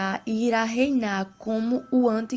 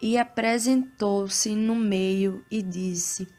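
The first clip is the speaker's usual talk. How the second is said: scripture reading. Acted. Reads Bible passage aloud.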